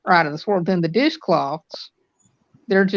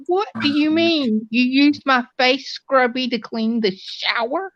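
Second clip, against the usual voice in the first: shocked wife; 6 semitones higher than usual. Retold or imitated. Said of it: "And she's like".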